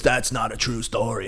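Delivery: lightly put-on voice of a fellow comic; a hint of an impression, disbelieving; imitated comedian's voice. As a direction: lightly mimic how the comedian talks, a bit subdued. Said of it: "That's how he talked".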